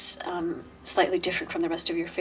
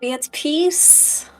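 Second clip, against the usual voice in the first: smarmy stranger; 3 semitones higher than usual. Acted. Aslan introducing himself to a wary fierce lady, lightly smarmy. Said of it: "it's the smarmy guy".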